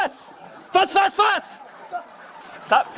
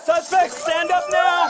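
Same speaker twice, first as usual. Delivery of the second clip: cover me shout. Real, not acted. Police commands armed suspect.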